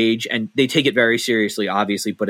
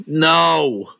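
curt, higher, louder no; wife's blunt no; 5 semitones higher, 4 dB louder than usual. Retold or imitated. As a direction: snap out a flat refusal. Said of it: "my wife's least favorite way of saying no".

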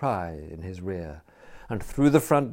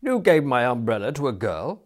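high, louder incredulous query; aghast question; 4 semitones higher, 7 dB louder than usual. A narrator's reading. Youth hears Smith gave it away, aghast. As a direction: ask in indignant disbelief.

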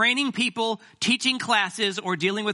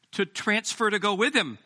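rising to a high, loud mock cry; a comic high wail of escape; 8 semitones higher, 4 dB louder than usual. Real, not acted. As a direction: wail it like you're desperate to escape. Joking about fleeing snowy region.

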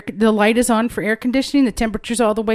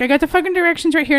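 retold irritation; 6 semitones higher, faster than usual. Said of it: "And I'm like".

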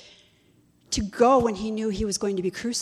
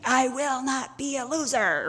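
mock mad; 7 semitones higher than usual. Knight refusing his love's demand, acted-out anger. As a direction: act out a mild huffy outburst. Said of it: "he gets really mad".

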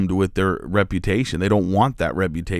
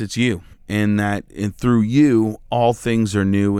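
earnest prayer, raised at first then settling; spoken prayer. Real, not acted. Host praying to the Father for listeners, earnest prayer. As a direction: pray for the listeners, lifting then easing down.

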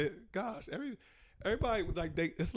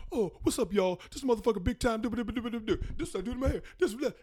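a hint of a hyped bro, higher and lively; mock dude tutorial voice; 6 semitones higher than usual. Mocking male hair tutorials, lightly hyped bro voice. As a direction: lightly imitate a rambling guy vlogger. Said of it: "Every dude is like".

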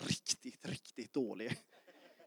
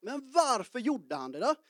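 asking voice; 6 semitones higher than usual. Retold or imitated. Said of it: "om man skulle ställa en fråga".

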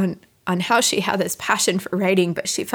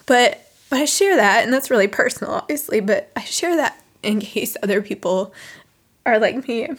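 crying, worn out. Real, not acted. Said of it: "Man, I can't stop crying".

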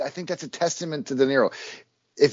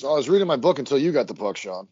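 imitating dad. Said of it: "like my dad at one of my hockey games".

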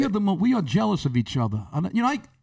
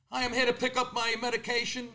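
soft muffled request; 4 semitones higher, 7 dB quieter than usual. Acted. Customer muffled behind mask.

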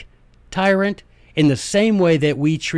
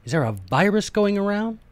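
mock surprise; 6 semitones higher than usual. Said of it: "be like".

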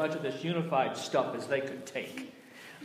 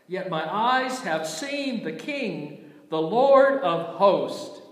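anguished lament; 5 semitones higher, slower than usual. Acted. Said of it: "And I said".

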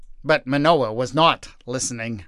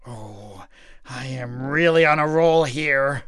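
smug to himself. Acted. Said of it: "Manoah smiled to himself".

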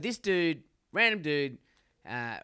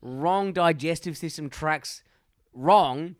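hyped announcement; 3 semitones higher, 6 dB louder than usual. Real, not acted. Announcing the mate of the week.

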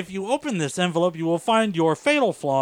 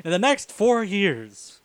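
phone message; slower than usual. Retold or imitated. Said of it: "It's like a phone message".

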